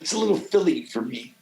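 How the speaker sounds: lightly voiced breezy LA wife; a hint of a picky Los Angeles wife turning it down; a touch of the choosy LA ex-wife. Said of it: "she's, like, so L A".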